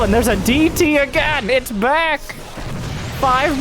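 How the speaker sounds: high, quick excited call. Real, not acted. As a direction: call it out as it reappears. Caster spots the returning DT.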